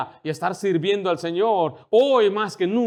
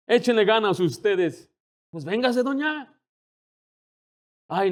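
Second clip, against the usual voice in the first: preaching at full force; 5 semitones higher than usual. Acted. Pastor urging the church to evangelize, in a fervent preaching voice. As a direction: drive the call home to the congregation. Preaching climax, higher and louder.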